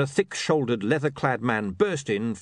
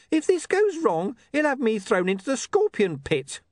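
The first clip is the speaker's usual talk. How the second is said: very high, wailing worry; frightened protest; 4 dB louder than usual. Acted. Charlie warning Mister Pin of punishment, frightened. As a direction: protest in rising panic. Charlie fears scorpion pit.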